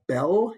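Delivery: bell with the L turned into a W; "bell" said as "bew", Cockney style; W sound for L. Shown as a demonstration. Teacher shows Cockney sounds to class, W sound for L. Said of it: "W sound for the L".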